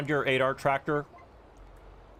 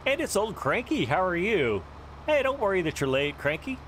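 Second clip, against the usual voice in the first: excited greeting; 7 semitones higher than usual. Real, not acted. Greeting a viewer in chat.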